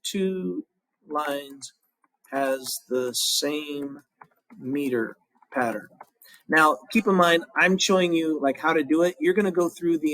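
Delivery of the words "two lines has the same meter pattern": slow dictation. Shown as a demonstration. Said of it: "you would write".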